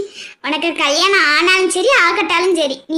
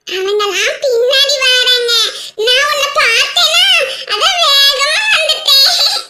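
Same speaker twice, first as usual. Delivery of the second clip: put-on little girl, eager; 7 semitones higher than usual. Little girl explains she ran ahead, eager child voice. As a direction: chatter like an eager small child.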